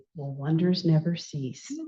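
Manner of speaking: mock muttering under the breath. Retelling what a man said while shaking his head, imitating someone muttering. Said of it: "shaking his head and muttering".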